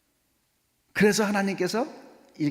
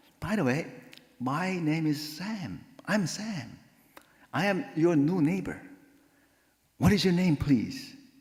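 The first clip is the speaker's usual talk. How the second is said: warm, high, very slow, smiling tone. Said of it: "이제 싹 웃고".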